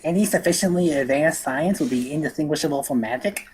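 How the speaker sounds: lightly voiced nerd; a hint of nerdy know-it-all. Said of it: "That was my stupid nerd voice".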